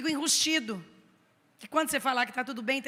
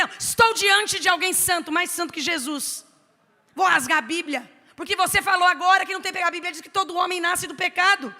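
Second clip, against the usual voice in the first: mock awe; 5 semitones higher, 6 dB louder than usual. Pastor mocks sinless claim.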